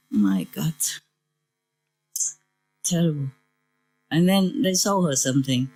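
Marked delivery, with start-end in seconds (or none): none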